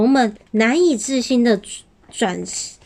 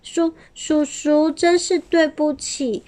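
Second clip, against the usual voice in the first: little dinosaur voice; 6 semitones higher than usual. A narrator's reading.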